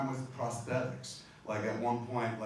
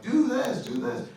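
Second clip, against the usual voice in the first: mock scream; 12 semitones higher, 8 dB louder, slower than usual. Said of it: "I would have to scream through".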